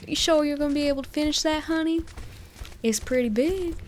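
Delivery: playful Southern waitress voice; southern accent. Retold or imitated. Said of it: "in a southern accent".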